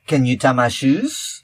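lightly mock French accent; fake French. Teacher teases a kid who takes French, fake French accent. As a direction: pass English off as French, lilting up at the end. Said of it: "I have my fake French".

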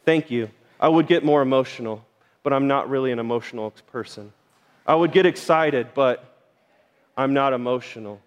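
lightly hammed-up flat, unimpressed voice; mock straight-faced. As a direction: play the unflappable guy who shrugs off a million dollars. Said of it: "with a straight face".

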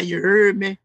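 put-on New Orleans accent catchphrase. Shown as a demonstration. Showing off the accent his friends hate, New Orleans accent. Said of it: "I do my New Orleans accent".

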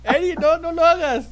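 high, loud pleading wail; mock horrified shout. Host begging Eri not to do it, high mock-horrified shout. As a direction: cry out in playful despair, high and loud. Mock horror at live stream prank.

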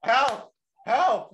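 high yelling for help; calling for help. Pretend. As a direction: cry out from the ledge. Victim calling out in story.

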